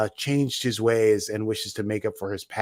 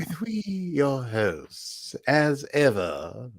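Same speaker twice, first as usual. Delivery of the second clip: mock posh host; 4 semitones higher, much slower than usual. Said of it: "I like you saying".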